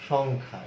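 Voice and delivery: সংখ্যা as "shongkha", with a clear "ng"; neatly joined "shong-kha" for সংখ্যা; ng pronunciation. Shown as a demonstration. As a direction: say সংখ্যা in one piece, "ng" before "kha". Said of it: "এইভাবে আমরা পাচ্ছি".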